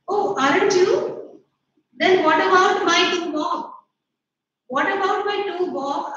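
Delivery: put-on a boy's high-pitched protest, pushing the pitch up; shrill outcry. Harold demanding his lost bet from his pa, high and loud. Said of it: "he cried shrilly".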